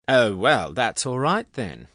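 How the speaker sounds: high, mock-approving sarcasm; heavy sarcasm. A narrator's reading. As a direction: pretend it's fine, sarcastically. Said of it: "she said with heavy sarcasm".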